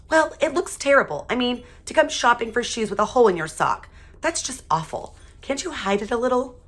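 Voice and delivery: a mother mortified in the shoe store; fretting mother. A narrator's reading.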